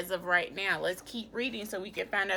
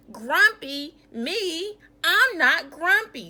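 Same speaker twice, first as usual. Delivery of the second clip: loud indignant protest, higher pitch; grumpy denial; 7 semitones higher, 9 dB louder than usual. Acted. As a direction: bark the denial, offended. Jim denies being grumpy.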